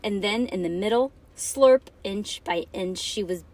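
put-on dramatic read-aloud for children; story narration. A narrator's reading.

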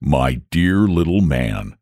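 put-on low, slow, grave old dragon; solemn dragon voice. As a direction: speak down gently like a wise beast. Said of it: "said the dragon solemnly".

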